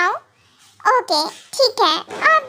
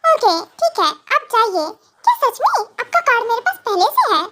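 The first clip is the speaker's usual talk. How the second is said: higher, teasing wife setting conditions; playful young wife; 4 semitones higher than usual. Acted. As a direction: bargain sweetly, laughing. Wife answers husband. (ऊँची, शरारती हँसती पत्नी)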